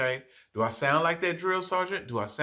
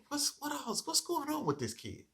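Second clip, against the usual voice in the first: pondering aloud, higher and much softer; musing to self; 10 semitones higher, 11 dB quieter than usual. Retold or imitated. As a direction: wonder quietly what's going on. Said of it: "just stop and think".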